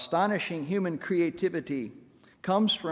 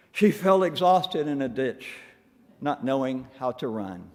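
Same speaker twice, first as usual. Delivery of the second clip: rhythmic, emphatic comic verse; verse reading; 2 semitones higher than usual. Acted. Preacher reading little centipede poem to congregation, rhythmic verse reading. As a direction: read it in lilting meter, settling down at the end.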